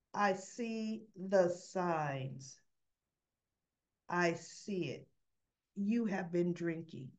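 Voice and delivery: slow, deliberate retold accusation; stern confrontation. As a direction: confront him word by word. Sponsor confronts him about drinking.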